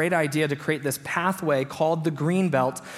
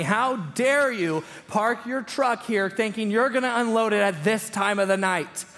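retold scream; 6 semitones higher than usual. Angry neighbor confronting a man over his truck, mock screaming. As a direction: imitate an outraged yell, stretched out. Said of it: "She's screaming at me".

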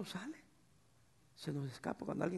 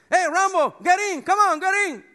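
much higher, much louder frantic English call; shrieking high call in English; how not to call him; 13 semitones higher, 18 dB louder than usual. Shown as a demonstration. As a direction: yell it in a panic at the dog. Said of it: "no le digan".

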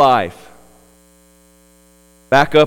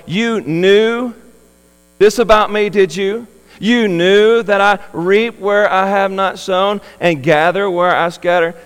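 sarcastic quoting; 5 semitones higher, 4 dB louder than usual. Acted. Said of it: "Throw up the hand quotes".

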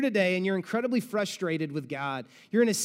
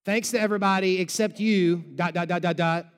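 passive aggressive; 4 dB louder than usual. Pretend. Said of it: "get on Facebook and be like".

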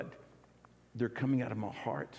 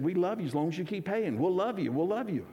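higher, playful loan officer voice, louder on the second love you; mock loan officer; 6 semitones higher, 3 dB louder than usual. Pastor mimicking the loan officer's phone call, higher and playful. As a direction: tease like a cheerful banker with a catch. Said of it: "The loan officer called and said".

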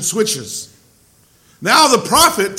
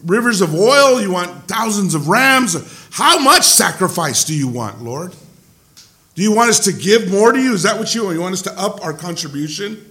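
voice of the people. Retold or imitated. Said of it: "he takes that voice of the people".

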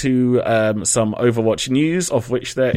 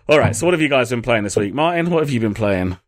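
ordinary delivery

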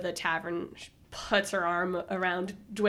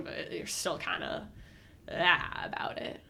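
whisper; 5 semitones lower, 7 dB quieter than usual. Real, not acted.

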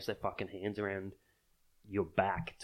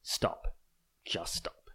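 whispered plea; 3 semitones lower, much slower than usual. Real, not acted. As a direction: whisper Stop, Just stop. Exhausted plea after rant.

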